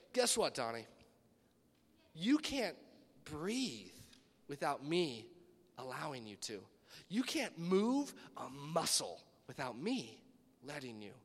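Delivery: low, slow, weighty God voice. Retold or imitated. God tells the fallen Donnie he needs him, low and slow. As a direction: lay it down slowly from above, low. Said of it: "he said".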